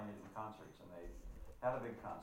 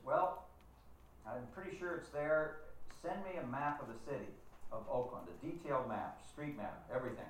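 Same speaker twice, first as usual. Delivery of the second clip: put-on Southern accent; 4 semitones higher than usual. Dowser requesting a map from his caller, Southern accent. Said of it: "in this heavy Southern accent".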